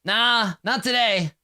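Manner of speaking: high, slow, unbothered reply; lazy Skids voice. Acted. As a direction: drag it out like a slacker coworker. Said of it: "And Skids is like".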